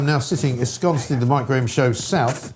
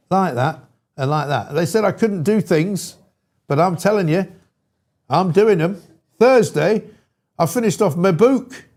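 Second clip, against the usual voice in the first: put-on northern accent. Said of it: "Should I do the northern accent".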